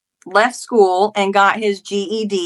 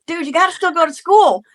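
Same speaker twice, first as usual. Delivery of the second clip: retold pleading argument; 8 semitones higher than usual. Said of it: "argue and scream at each other".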